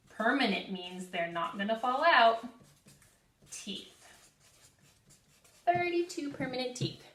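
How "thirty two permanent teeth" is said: call and response. Shown as a demonstration. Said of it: "Say that with me".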